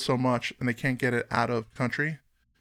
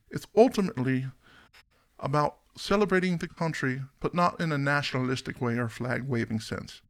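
bad Australian accent. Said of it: "I'm sorry, that was awful".

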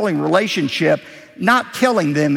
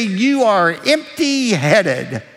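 scornful mock insult; 5 semitones higher, 3 dB louder, slower than usual.

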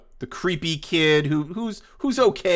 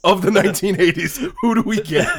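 laughing, louder excited pitch; excited planning; 3 semitones higher, 5 dB louder than usual. Real, not acted. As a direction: grin through the casting.

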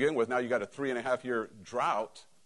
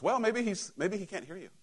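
sarcastic; 6 semitones higher than usual. Acted. Elijah taunting the prophets when nothing happens, sarcastic. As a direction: needle them with pretend helpfulness. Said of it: "this is where sarcasm says".

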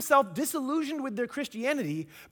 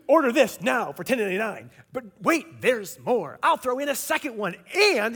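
infomercial; 2 semitones lower, 5 dB louder than usual. Retold or imitated. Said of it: "I feel like an infomercial guy".

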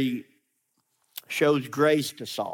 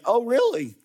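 dry mock surprise, slowing to a pointed name; sarcastic; 2 semitones higher, slower than usual. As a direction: needle him, you know he's lying. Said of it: "I can almost hear sarcasm in his voice".

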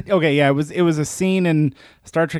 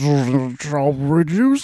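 slow lispy drawl; slower than usual. Retold or imitated. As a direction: lisp the words slowly. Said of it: "that same kind of lispy".

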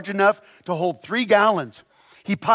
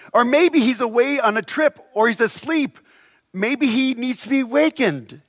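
higher-pitched, lightly mocking suggestion; 4 semitones higher than usual. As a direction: tease them with mock helpfulness. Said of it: "began mocking them".

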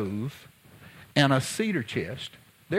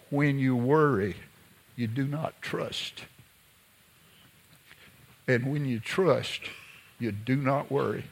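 wise grandmother. Retold or imitated. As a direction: pass on the lesson gently. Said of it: "She said".

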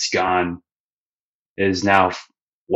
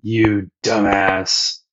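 drawn-out insult; much slower than usual. Retold or imitated. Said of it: "Krieg's, like, pretty upset".

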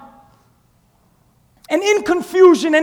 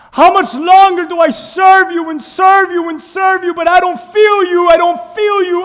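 loud pleading prayer; pleading cry to God; 3 dB louder than usual. Pretend. Believer crying out to God, loud pleading.

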